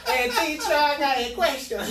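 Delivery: put-on very high, loud schoolkid in a Hispanic accent; mock Hispanic accent. Pupil calling to teacher, in a mocked Hispanic accent. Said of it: "How do you have that accent?".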